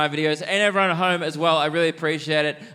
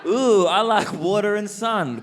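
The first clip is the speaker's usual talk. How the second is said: slow, high-pitched mock plant; stretched-out, singsong mockery; 8 semitones higher, 3 dB louder, slower than usual. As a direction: ridicule a dim plant with a drawn-out, higher voice. Mocking plants' lack of personality.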